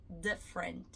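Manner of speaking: different with the tongue d, dif-rent; the right different, a clean d; correct English d. Shown as a demonstration. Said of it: "e não the different".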